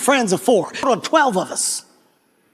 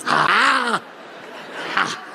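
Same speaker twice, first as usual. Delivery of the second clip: animal growl-cry; 3 semitones lower, 4 dB quieter than usual. Retold or imitated. Guide biting bark, acting animal.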